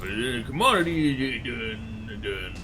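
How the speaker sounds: put-on Southern hillbilly drawl; hammed-up American South accent. Streamer goofing while throwing a ship at commodities, southern US accent. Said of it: "I went southern United States there".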